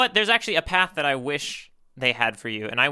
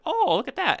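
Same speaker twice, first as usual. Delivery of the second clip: retold surprise; 13 semitones higher than usual. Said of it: "I was like".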